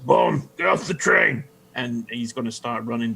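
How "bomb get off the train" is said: mock alarm shout, higher and punchy; acted shout. Player voicing his character warning the train, acted shout. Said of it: "he's gonna shout".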